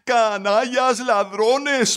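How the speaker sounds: high, slow, choked cry of rage; acted fury, drawn out and pitched high; hoarse, enraged exclamation. A narrator's reading. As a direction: hurl the insult in a strained voice. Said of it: "pudo exclamar después de un momento con voz enronquecida".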